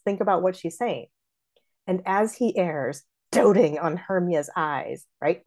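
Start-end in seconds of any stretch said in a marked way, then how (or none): 1.8-5.0 slow line, "doting" punched as DOH-ting; stabbing stress on "doting"; little jab. Shown as a demonstration. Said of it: "just a little jab there".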